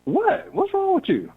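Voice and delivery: high, baffled what. Retold or imitated. Man to annoyed coworker, high baffled protest. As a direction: play it totally confused and innocent. Mock confused reply to annoyed woman.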